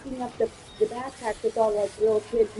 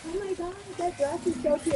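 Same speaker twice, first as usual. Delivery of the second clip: retold gushing; 7 semitones higher, 3 dB quieter than usual. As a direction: gush over a cute find. Retold gushing over a dress.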